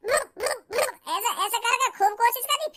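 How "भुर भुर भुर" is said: brr, brr to chase a cat, slightly higher; lightly done shooing sounds; shooing noises. Retold or imitated. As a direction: imitate dad shooing the cat. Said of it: "पापन ने भी".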